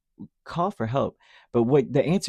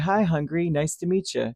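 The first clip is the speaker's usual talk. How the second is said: sarcastic granddad; 5 semitones higher than usual. Retold or imitated. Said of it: "he would be very sarcastic with me".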